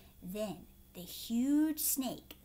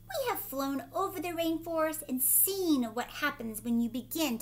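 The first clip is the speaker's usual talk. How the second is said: lightly voiced bird, louder and insistent; urgent toucan; 6 dB louder than usual. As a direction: warn the man urgently as a bird. Reads the toucan's speech.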